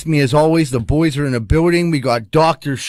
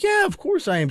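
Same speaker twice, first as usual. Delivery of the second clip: mock eager. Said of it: "I'm like".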